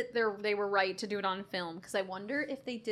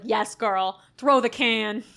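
loud cheering; 8 dB louder, much slower than usual. Retold or imitated. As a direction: cheer her on loudly. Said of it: "I was like".

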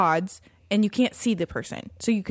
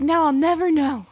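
said through a laugh, up high; 7 semitones higher, 3 dB louder than usual. Retold or imitated. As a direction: giggle it out. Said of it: "I was like".

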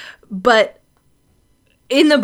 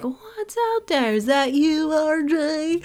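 put-on spooked old man; 5 semitones higher, 4 dB quieter than usual. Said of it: "And he's like".

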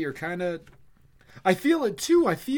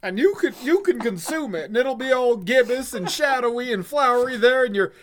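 higher, swooning cosmic rapture; eldritch rambling; 6 semitones higher than usual. Acted. Mary answering with a Lovecraftian rapture.

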